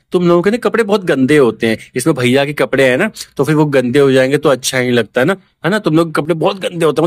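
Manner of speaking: mildly sweetened version of her complaint; softened imitation. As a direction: say it gently, a touch too nicely. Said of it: "इतने प्यार से नहीं बोलती थी ये". (नरमी से, हल्की नकल में)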